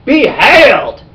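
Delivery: high, loud mock Southern belle; Southern belle accent. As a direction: proclaim it in a put-on Southern belle drawl. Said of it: "this Southern Belle type accent".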